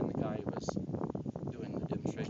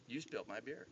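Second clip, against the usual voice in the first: quiet menace; 3 semitones lower, 10 dB quieter than usual. Retold or imitated. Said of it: "and he goes".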